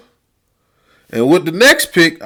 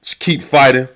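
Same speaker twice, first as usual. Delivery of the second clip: mocking coach excuses; 5 semitones lower, 3 dB quieter than usual. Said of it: "they wanna talk about".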